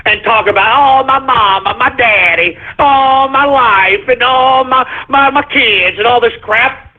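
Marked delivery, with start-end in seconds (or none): 1.0-6.0 whiny, self-pitying mock lament; mock whining. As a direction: whine it like a crybaby, drawn out on oh. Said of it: "bitch and moan and cry".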